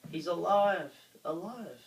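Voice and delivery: high, loud gleeful cry; little monsters cheering in delight; excited exclaim. A narrator's reading. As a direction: shout it with gleeful triumph. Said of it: "the little terrors exclaimed".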